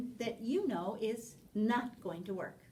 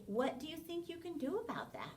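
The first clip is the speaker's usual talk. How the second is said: encouraging question; 4 semitones higher, 4 dB quieter than usual. Shown as a demonstration. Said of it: "And so you would say".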